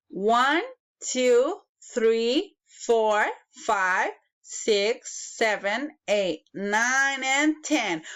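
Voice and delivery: put-on bright counting-for-kids voice; kindergarten teacher voice. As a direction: count out each number to little children. Counting aloud for children.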